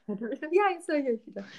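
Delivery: playful laughing repeat; laughing echo. Pretend. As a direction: echo it back through a laugh. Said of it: "Déjà-vu".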